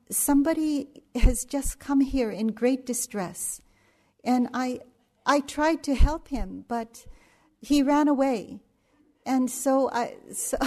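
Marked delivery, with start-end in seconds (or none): 0.1-8.6 retold plea in a light Indian accent, pitched higher and louder. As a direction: imitate an excited Indian accent on the phone. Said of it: "in his kind of Indian accent".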